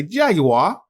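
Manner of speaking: British Siri. Retold or imitated. Mimicking Siri's British pronunciation of Jaguar. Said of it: "my Siri speaking British".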